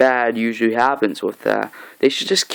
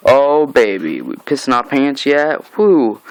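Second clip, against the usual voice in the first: hyped taunt; slower than usual. Real, not acted. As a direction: gloat like a fan at the big reveal. Hyping Negan's entrance.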